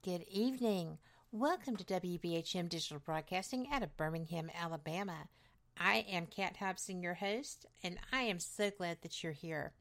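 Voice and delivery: slightly hoarse, raspy speaking voice. Real, not acted. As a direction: talk through a touch of rasp. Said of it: "I do have a bit of a raspy voice for me".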